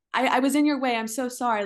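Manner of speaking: mimicking a woman apologizing for being in the way, mock flustered; mock over-apology. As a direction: toss off a needless "sorry" in mock fluster. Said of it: "people kept saying sorry".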